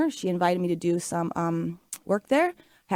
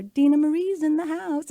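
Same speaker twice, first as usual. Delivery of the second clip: announcing from the stage; 7 semitones higher than usual. Retold or imitated. Singer announces her from the stage.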